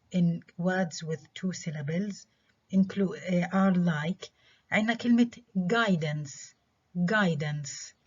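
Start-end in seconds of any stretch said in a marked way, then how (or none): 5.6-7.9 "guidance" modelled twice, stressed on GUI; first-syllable stress. Shown as a demonstration. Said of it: "examples of stress on the first syllable".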